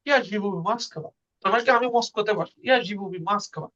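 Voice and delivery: quiet Russian accent, Я живу в Москве; রুশ উচ্চারণে নরম স্বরে. Shown as a demonstration. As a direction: speak it the Russian way, softly. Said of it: "তো ওদের অ্যাকসেন্টটা এমন".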